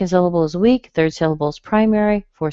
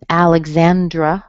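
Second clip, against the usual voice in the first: Alexandra louder, as AL-ig-ZAN-druh; same stress pattern; 5 dB louder than usual. Shown as a demonstration. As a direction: punch first and third syllables of Alexandra. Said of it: "would follow that same pattern".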